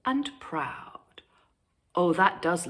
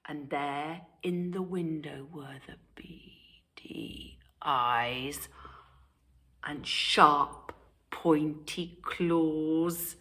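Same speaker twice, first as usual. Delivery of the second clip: hushed, softer whisper; suspense whisper; 3 semitones lower, 5 dB quieter, slower than usual. A narrator's reading. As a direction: whisper it to scare. Suspense narration.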